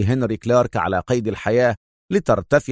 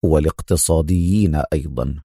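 low, mildly mocking addition; understated sarcasm, pitched well down; a touch of irony; sarcastic; 7 semitones lower than usual. A narrator's reading. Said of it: "بنفس لهجته التهكمية".

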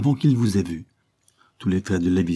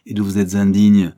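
higher, rising into louder scorn; vehement; 4 semitones higher, 4 dB louder than usual. Acted. Lady Levison accuses her husband with vehemence. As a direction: hurl each accusation harder. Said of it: "continua-t-elle avec véhémence".

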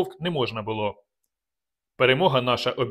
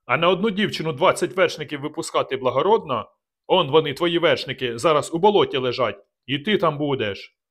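angry retort; 3 semitones higher than usual. Acted. Narrator shouting accusations back at Dubatovk. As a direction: hurl it back at him.

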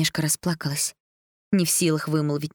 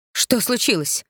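high, startled gasp of alarm; queen's shocked outcry; horrified cry; 6 semitones higher, 3 dB louder, slower than usual. A narrator's reading. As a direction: cry out in horror at the bruised girl. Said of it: "в ужасе вскрикнула королева".

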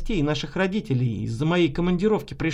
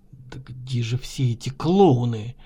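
irritated; 7 semitones lower than usual. A narrator's reading. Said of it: "раздражённо думал Трофим".

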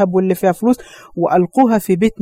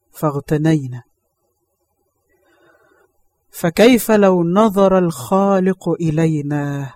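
moved to tears; 4 semitones lower, 3 dB quieter, slower than usual. Real, not acted. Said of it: "preacher repeats the words, moved".

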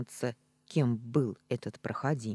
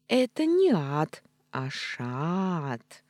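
1 irritated correction; 3 semitones higher, 4 dB louder, much slower than usual. Acted. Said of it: "раздражённо поправило животное".

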